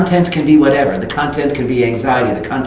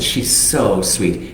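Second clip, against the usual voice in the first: tender and slow; much slower than usual. Retold or imitated. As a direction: coo it to win the husband over. Coaxing husband about puppy.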